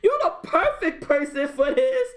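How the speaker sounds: high-pitched, laughing outburst of disbelief; exasperated disbelief. Retold or imitated. Fan scolding the actor over a needless accent, exasperated. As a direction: demand an answer, voice shooting way up.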